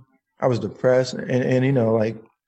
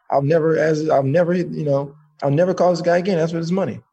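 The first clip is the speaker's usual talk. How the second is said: higher-pitched retold vow; saying out loud; 4 semitones higher than usual. Man obeying God by vowing to stop calling, retold out-loud declaration. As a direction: act out a declared promise. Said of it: "had to say out loud".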